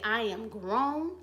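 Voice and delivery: bold declaration. Pretend. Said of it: "when you finally get bold enough to say".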